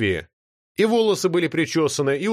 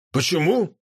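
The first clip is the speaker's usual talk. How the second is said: mild surprised rise on «Почему?»; feigned surprise, echoing the question; 4 semitones higher than usual. A narrator's reading. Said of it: "удивился Обжора". (удивлённо переспросить)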